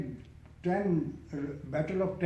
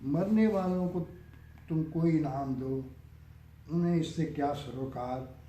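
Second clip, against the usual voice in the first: measured verse, phrase by phrase, fading at the close; poem recitation. Acted. Poet reciting a nazm on death's game, measured recitation. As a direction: recite with pauses, letting the last line drop away.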